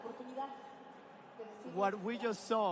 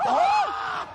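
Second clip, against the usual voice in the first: surprised; 9 dB louder than usual. Real, not acted. Huge play in the match.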